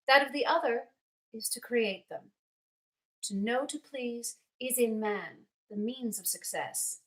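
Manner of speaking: measured, lilting monologue read with deliberate pauses; dramatic letter reading. Acted. Older aunt advising her young friend in a letter, dramatic reading. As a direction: read it as heartfelt, formal counsel, phrase by phrase. Reads the monologue aloud as the character.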